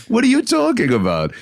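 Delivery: high, laughing disbelief. Retold or imitated. Guest telling the casting director in disbelief, high and laughing. Retelling his laughing reply.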